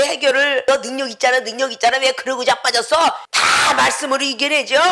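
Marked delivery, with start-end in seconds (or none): 0.7-3.0 taunting Satan. Acted. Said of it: "사단에게 시험을 받으러".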